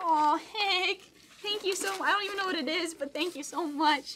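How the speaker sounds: high voice, welling up, close to crying. Reading a note that came with a gift, then thanking the sender: on the verge of tears. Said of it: "I'm going to cry".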